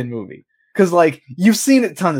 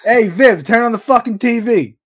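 mock Southern redneck; 6 semitones higher than usual. Southern husband yelling at Viv about the T V, hammy. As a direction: bark at Viv like a hick husband. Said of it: "my Southern accent".

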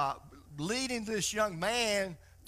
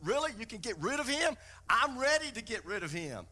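put-on eager, slightly raised voice of a hopeful young man; a touch of excitement at the offer; mildly excited young man; 3 semitones higher, faster than usual. Young man hears the angel can remove his lizard, mildly excited. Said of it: "he's all excited".

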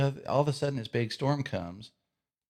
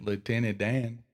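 Forrest Gump. Acted. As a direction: draw out "Dan" in a mild Southern accent. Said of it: "and sound like Forrest".

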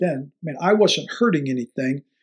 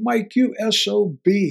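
higher, slow, swearing rant; retold angry screaming; 5 semitones higher, slower than usual. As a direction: bark out the insult like a grouchy old coach. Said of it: "Carl comes running up screaming".

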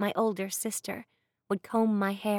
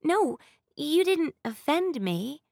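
softened voice; 7 semitones higher, 3 dB louder, slower than usual. A narrator's reading. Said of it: "I said, softening my voice".

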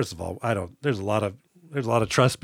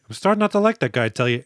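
imitating an easygoing guy, pitched up; mild complaint, dropping off at the end; lightly acted, unbothered remark; laid-back; faster than usual. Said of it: "Glasses is pretty laid back".

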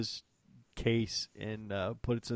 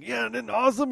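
giddy self-quote; 14 semitones higher, 7 dB louder than usual. Retold or imitated. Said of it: "I'm like".

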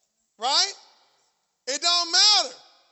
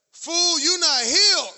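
mock scolding voice of pain, a bit louder; 2 semitones higher, 6 dB louder, slower than usual. Pain mocking the preacher's ankle, scornful. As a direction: sneer it like the pain talking back. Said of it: "That was that pain say".

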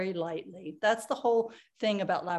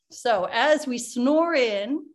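slow snore-in; 3 semitones higher, 6 dB louder, slower than usual. Shown as a demonstration. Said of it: "happy dream laughter".

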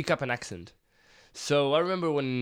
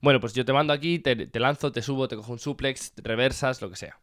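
natural Castilian Spanish accent; Spain Spanish accent; faster than usual. Shown as a demonstration. Wrestler showing how he speaks, Castilian Spanish accent. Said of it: "if I speak in Spanish, it would be like this".

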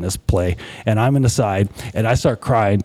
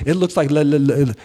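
stammering on the word, pitched a little up; halting, mildly alarmed stutter; mild retold panic; 5 semitones higher than usual. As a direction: act out someone starting to panic. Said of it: "she starts to panic".

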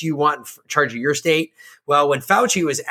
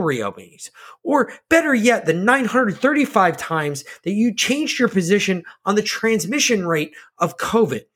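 higher-pitched exasperated rant; indignant scolding; 5 semitones higher than usual. Acted. Host addresses Fauci over changed positions, indignant. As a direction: take an absent official to task, voice raised in pitch.

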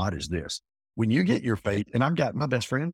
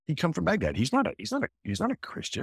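much higher, pressing each fact home; emphatic disbelief; 6 semitones higher, faster than usual. Real, not acted. Host stresses his friend's background, pitched high with emphasis. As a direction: push it up high as if it's hard to believe.

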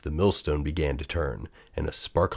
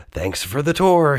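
cheery thanks; 8 semitones higher, 4 dB louder than usual. A narrator's reading. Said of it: "he told the guard".

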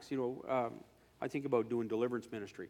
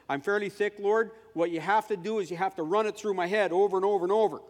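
louder, higher pleading; earnest prayer; 7 semitones higher, 9 dB louder than usual. Retold or imitated. Scene: preacher asking God for repeated words, raised plea. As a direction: beg God to repeat it, loudly.

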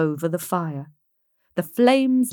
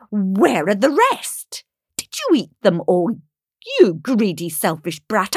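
mildly raised, accusing voice; angry accusation; 4 dB louder than usual. Acted. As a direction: turn on her greedily. Helena turns on Maruschka in anger.

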